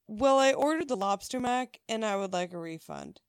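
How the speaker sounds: mildly indignant retold complaint; retold anger. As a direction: voice a put-out customer lodging a complaint. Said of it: "and she's very angry".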